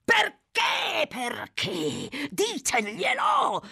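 high, slow-stretched cries; frantic demand. A narrator's reading. Fagin urges Noah to tell Sykes why, frantically. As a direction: press wildly for the answer.

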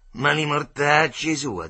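slow, loud Roman swearing; loud curse. A narrator's reading. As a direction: spit the curse out. Boys taunting a crying kid.

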